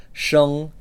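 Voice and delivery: "sheng" with an "ung" vowel; Mandarin sheng. Shown as a demonstration. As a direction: say "sheng" like a teacher. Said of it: "which means birth".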